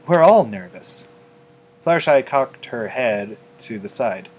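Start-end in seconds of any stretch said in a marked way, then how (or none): 0.1-1.1 reassuring. A narrator's reading. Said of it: "Rarity assured her".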